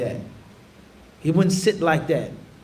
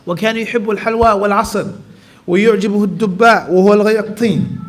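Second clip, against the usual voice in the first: fast, even recitation of the classical Arabic text; rapid Arabic recitation; much faster than usual. Acted. Teacher reading the Arabic hadith to his class, rapid recitation. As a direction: read the hadith off quickly and smoothly.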